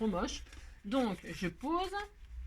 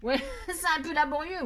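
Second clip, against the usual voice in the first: laughing; 7 semitones higher than usual. Real, not acted. Laughing at her own clumsiness.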